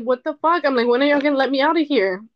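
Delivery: loud, high angry outburst; reliving a furious yell; frustrated yell. Retold or imitated. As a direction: shout it out, fed up at being locked in. Frustrated outburst, hitting the window.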